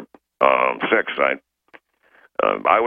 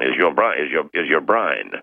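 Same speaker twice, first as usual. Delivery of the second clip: put-on Cockney accent. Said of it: "That's my Cockney accent".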